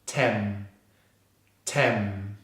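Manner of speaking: "Tem" held onto a low hummed M; isolated stressed syllable. Shown as a demonstration. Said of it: "finishes on the M consonant".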